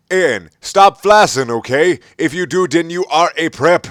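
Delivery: high, loud whiny mock voice; mocking author's note voice. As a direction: ham up the whiny writer.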